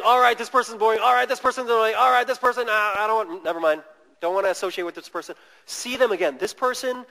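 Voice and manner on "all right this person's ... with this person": dismissive inner voice. Retold or imitated. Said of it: "instead of just automatically saying".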